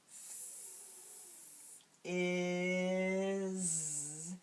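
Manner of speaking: "f-" hissed apart from "is"; segmented sounds. Shown as a demonstration. Teacher says the sounds of "fizz" one at a time. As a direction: split "fizz" into "f-" then "is". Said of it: "as they say the sounds".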